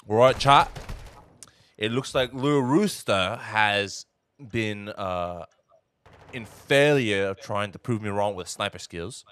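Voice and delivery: put-on British accent drifting Australian, loud opening; attempted British accent. Co-caster calling the sniper play in an attempted British accent. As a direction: cast the match in a shaky-Australian British accent. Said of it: "my man's Australia now".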